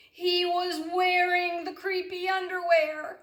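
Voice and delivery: put-on spring the surprise on the kids; shocked reveal. A narrator's reading.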